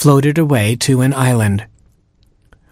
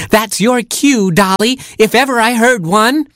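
kangaroo doctor calling; 11 semitones higher than usual. Acted. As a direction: call out high like a kangaroo doctor. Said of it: "called the kangaroo doctor".

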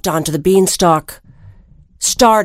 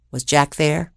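soft suspenseful ask, dropped low; hushed question; 5 semitones lower, 5 dB quieter than usual. A narrator's reading. Storyteller asks children in suspense, softly. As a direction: lean in and whisper the question.

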